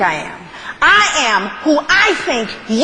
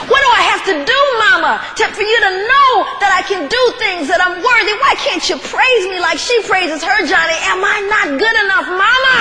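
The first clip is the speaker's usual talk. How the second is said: put-on hurt child pleading; 2 semitones higher than usual. Crushed son pleading with mother.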